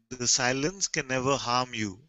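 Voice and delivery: ordinary talk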